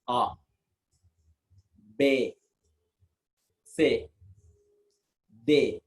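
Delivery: spelling out the letters A, B, C, D one by one in French; French letter names, spaced out. Shown as a demonstration. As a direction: say each letter slowly, French style. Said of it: "listen carefully how to pronounce that".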